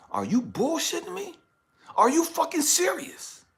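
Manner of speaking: dad outraged at his daughter's news; outraged disbelief. Retold or imitated. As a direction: hit them with angry disbelief.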